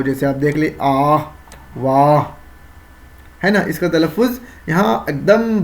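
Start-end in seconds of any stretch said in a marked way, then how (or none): 0.8-2.2 آہ and واہ with an audible h after the long aa; clearly sounded h. Shown as a demonstration. Teacher demonstrating haye malfoozi, audible final h in آہ، واہ. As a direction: finish آہ and واہ on a clear breath of h. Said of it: "واضح طور پر ادا ہو".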